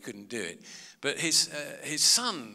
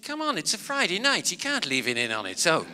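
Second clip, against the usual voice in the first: mock scolding wife; 4 semitones higher, 5 dB louder than usual. Wife voiced, teasing about fridge.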